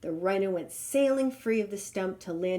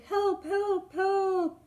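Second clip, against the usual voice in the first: bellowed; 11 semitones higher, much slower than usual. Acted. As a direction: keep bellowing, desperate. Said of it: "he bellowed".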